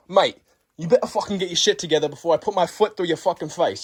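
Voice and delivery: mock Australian accent, scolding; Australian gym teacher. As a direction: imitate an Australian teacher threatening a pupil. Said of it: "He was Australian".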